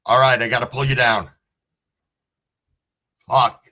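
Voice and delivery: snapping at the stream after a scare; real yelling. Real, not acted. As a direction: blurt it out annoyed at the guest. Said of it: "I'm sorry that I'm yelling about that".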